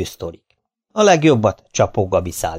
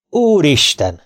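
hammed-up outrage to the heavens; thundering; 5 semitones higher, slower than usual. Father thunders at the ignorant buyer, hammed-up outrage. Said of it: "mennydörögte".

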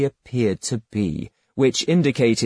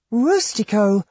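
Alibek; 9 semitones higher than usual. A narrator's reading. Girl Alibek voiced higher.

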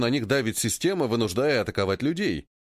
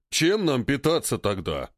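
reasonable ape voice; slower than usual. Acted. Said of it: "резонно спросил тот".

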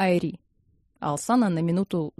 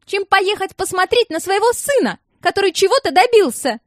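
high, loud angry tirade; furious yelling; 11 semitones higher, 6 dB louder than usual. A narrator's reading. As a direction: keep screaming at him. Alsana yelling on. (высокий громкий гневный крик)

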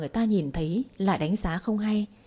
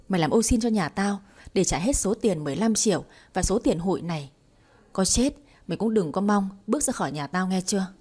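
hammed-up cursing. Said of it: "liên tục chửi rủa".

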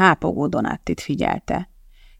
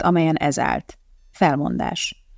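plain reading voice

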